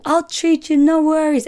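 high, loud, generous restaurant host; mock Italian host, insistently reassuring; typical Italian man. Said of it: "typical Italian man, comes out".

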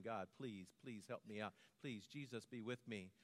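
soft, low pleading prayer; quiet retold prayer. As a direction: murmur the plea to God under your breath. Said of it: "I was just praying".

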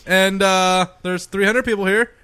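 lightly put-on live-show announcer; mock stage host. Comic explaining the show to a pretend audience, mock host voice. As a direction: address an imagined crowd as host.

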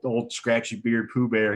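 ordinary talk, nothing marked

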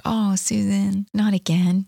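slow, mildly disappointed sigh of a voice; gently grieved, as if let down; sad, grieved God. Acted. God sad at the speaker's wrongdoing, mildly grieved. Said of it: "like, God being sad, you know, and grieved".

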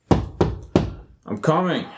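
slow, drawn-out call toward the door. Acted. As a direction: stretch it out, calling from across the room. Called through door, knocking.

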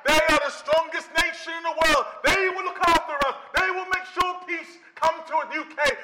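lightly voiced confident optimist; a hint of a naive believer; another complacent voice. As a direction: reassure yourself it will be fine, mildly smug. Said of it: "another voice saying".

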